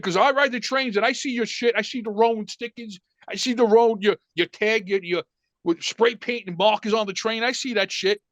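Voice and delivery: father flipping out. Retold or imitated. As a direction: imitate a fed-up dad listing offences. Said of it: "now my father flips out".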